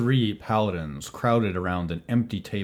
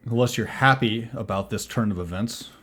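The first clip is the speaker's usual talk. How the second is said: lightly voiced paladin, raised and pointed; challenging paladin; 4 semitones higher, 5 dB louder than usual. Paladin challenging the person who walked in, a little raised and pointed. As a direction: push back at the newcomer.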